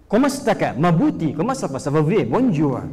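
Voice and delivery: mock French greetings; tossing off French small talk; French phrases. Preacher showing off quick language learning, mock French greetings. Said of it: "Bahasa Prancis".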